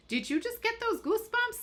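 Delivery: put-on very high Long Island accent; Teresa Caputo. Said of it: "when she says".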